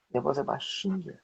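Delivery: soft voice. Shown as a demonstration. Teacher shows a soft piano voice, softly.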